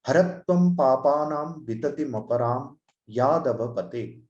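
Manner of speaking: measured recitation of the verse. Shown as a demonstration. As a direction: recite the example verse evenly. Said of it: "the example that I have chosen".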